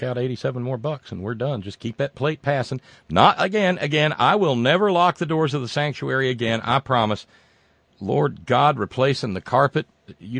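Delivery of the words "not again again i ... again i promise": raised, louder exasperated promise; exasperated vow. Real, not acted. Host vowing to never lock the sanctuary again, exasperated. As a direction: swear it off loudly in frustration. Host ranting over ruined carpet.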